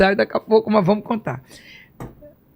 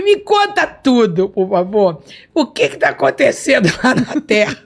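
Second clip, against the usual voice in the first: eager pleading; 4 dB louder than usual. Retold or imitated. Begging Jesus for answers.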